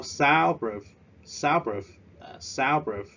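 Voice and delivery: SOUNDproof, first syllable stressed. Shown as a demonstration. Teacher drilling class: first syllable stressed. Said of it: "chúng ta nhấn ở vần đầu tiên".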